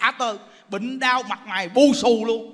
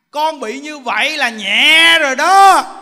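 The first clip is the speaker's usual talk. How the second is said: Buddha's stern reply; 4 semitones higher, 10 dB louder, slower than usual. Retold or imitated. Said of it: "Phật nói rằng".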